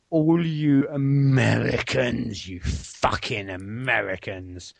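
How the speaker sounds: drawn-out film impression; Monty Python quote. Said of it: "name the film".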